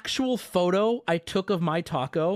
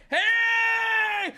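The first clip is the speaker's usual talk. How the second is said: startled shout. Real, not acted. Streamer startled as the new background pops up, shouting. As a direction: blurt it out, caught off guard.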